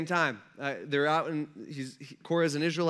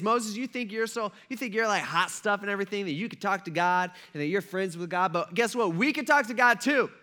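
mocking grumblers. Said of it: "what they start saying is".

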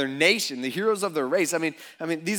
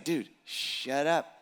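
the look; 3 semitones lower than usual. Retold or imitated. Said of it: "you gotta give 'em the look".

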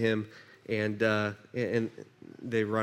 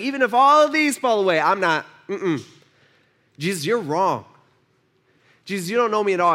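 defiant Peter; 2 semitones higher, 4 dB louder than usual. Acted. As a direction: insist stubbornly. Peter insists he won't fall.

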